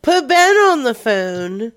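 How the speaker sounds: loud demanding prank caller. Acted. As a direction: bark it into the phone.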